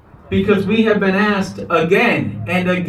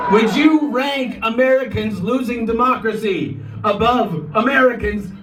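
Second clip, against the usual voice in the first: roaring rallying speech; 4 semitones higher than usual. Real, not acted.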